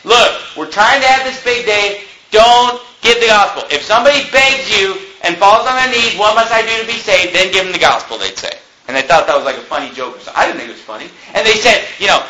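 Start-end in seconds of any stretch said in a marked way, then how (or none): 0.0-8.2 mock-annoyed, higher-pitched scolding; mildly mad. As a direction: imitate a leader getting a bit cross. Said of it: "they'd even get mad".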